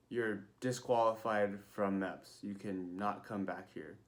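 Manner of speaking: slow, measured doctor delivering bad news; retold stern pronouncement; scary blunt verdict. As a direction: imitate a stern official, taking it slowly. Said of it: "she hella scared me".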